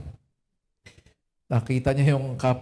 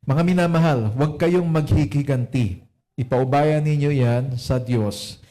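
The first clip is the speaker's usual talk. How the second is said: measured, louder Bible reading to the church; scripture reading; 3 dB louder than usual. Acted. Pastor reading Romans to the congregation, solemn and deliberate. Reads Tagalog Bible version.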